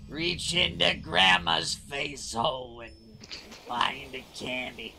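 sweet doting grandma. Acted. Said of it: "That's the perfect Jewish mother-in-law voice".

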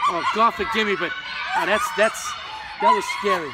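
loud laughing. Real, not acted. Loud reaction to the sight.

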